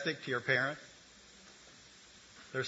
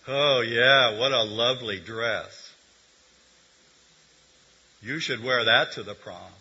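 louder, slow mock-sweet compliment; sarcastic; 2 semitones lower, 6 dB louder than usual. Shown as a demonstration. Professor demonstrates sarcasm to the congregation, sarcastic praise. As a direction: drip sarcasm over the praise. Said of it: "this is sarcasm".

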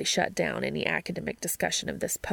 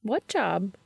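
brightly; 2 semitones higher than usual. Acted. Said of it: "she asked brightly".

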